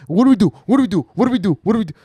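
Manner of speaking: high-pitched mock panic, repeated over and over; imitating a freak-out. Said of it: "she's freaking out".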